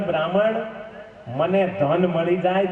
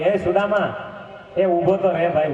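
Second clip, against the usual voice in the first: calling out. Acted. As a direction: call him back down the road. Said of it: "વળી ભગવાને બૂમ પાડી".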